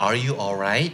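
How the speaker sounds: mildly concerned rising question; concerned check-in. Shown as a demonstration. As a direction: check on a friend who seems off. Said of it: "ด้วยน้ำเสียงประมาณนี้นะครับ". (ถามเพื่อนอย่างเป็นห่วงเล็กน้อย)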